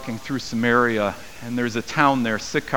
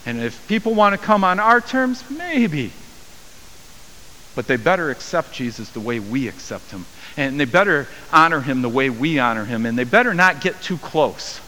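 smug exclusion. Retold or imitated. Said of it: "postured in a way to say".

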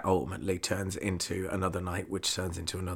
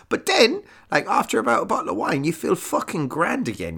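jumps much higher and louder, fast; sudden lift; 12 semitones higher, 8 dB louder than usual. Retold or imitated. Drinker telling listeners the wine perks him up, fast and loud. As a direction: burst back into life.

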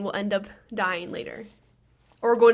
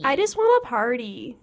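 louder, partying I just wanna party; 2 semitones higher, 6 dB louder than usual. Pretend. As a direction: belt it like a party cry. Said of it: "That got really loud".

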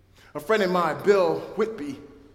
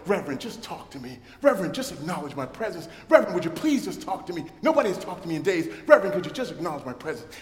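pleading inmates; faster than usual. Retold or imitated. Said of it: "all the hands come out of the gates and they go".

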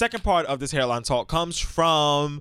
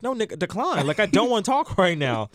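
exasperated refusal; 6 semitones higher than usual. Acted. Acted refusal of an annoying call.

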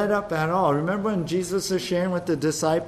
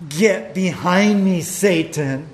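slow, louder, firm command; stern rebuke; 5 dB louder, slower than usual. Acted. Jesus rebukes Peter, slow and stern. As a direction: rebuke him slowly and sternly. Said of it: "how did Jesus respond to Peter?".

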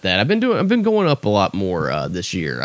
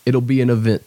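A rapper's quote. Retold or imitated. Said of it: "as a rapper would say".

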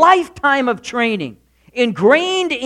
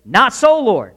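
loud, sudden objection; blurted protest; 3 semitones higher, 4 dB louder than usual. Retold or imitated. Peter blurting a refusal at the Lord, loud. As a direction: blurt it out at God. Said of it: "He says".

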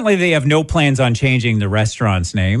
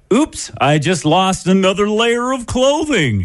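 high, breathy-free mock rock star coyly apologizing; mock pop singer; 8 semitones higher than usual. Host mocks the halftime singer, high and coy. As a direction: tease it out like a preening singer.

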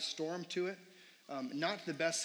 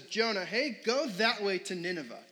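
God calling out; 3 semitones higher, 5 dB louder than usual. Retold or imitated. God voiced for kids.

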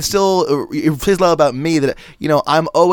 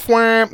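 quick higher party horn blast; party blower; 5 semitones higher than usual. Shown as a demonstration. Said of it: "it's a party horn".

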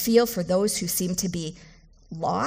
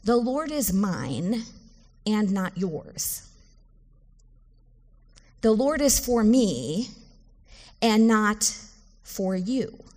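possessive, exclusive; slower than usual. Shown as a demonstration. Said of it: "what you mean is".

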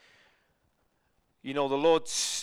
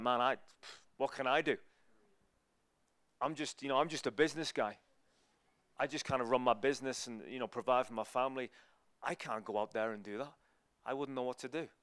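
softer, lower voice of self-doubt; feeling inadequate; 4 semitones lower, 6 dB quieter than usual. Acted. Just a business guy doubting his calling, acted inadequacy. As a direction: voice a doubter sinking into quiet helplessness. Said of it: "We feel inadequate".

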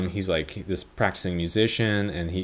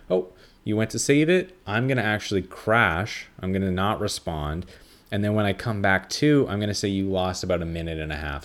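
spiteful laptop voice; 2 semitones higher than usual. Retold or imitated.

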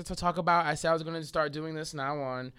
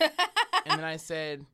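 laughing; much slower than usual. Real, not acted. Laughing while retelling.

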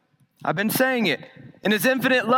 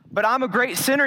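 doubting sinner; 3 semitones higher than usual. Retold or imitated. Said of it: "you say".

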